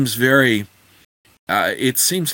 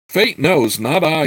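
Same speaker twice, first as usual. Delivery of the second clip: a snappish retort, slightly higher; reply with a touch of irritation, pitched up; mild snap; 6 semitones higher, 4 dB louder than usual. A narrator's reading. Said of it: "he snapped".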